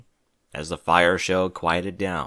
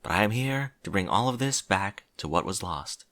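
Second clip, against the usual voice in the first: slightly higher princess voice; lightly voiced regal princess; 4 semitones higher than usual. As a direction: lightly play a princess addressing an assembly. Voices Princess Celestia's speech.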